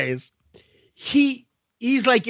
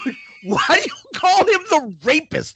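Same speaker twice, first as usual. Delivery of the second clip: higher, protesting retold question; mock incredulous; 6 semitones higher than usual. Friend retelling how he questioned his roommate's nickname for the professor, incredulous. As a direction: push it up in disbelief.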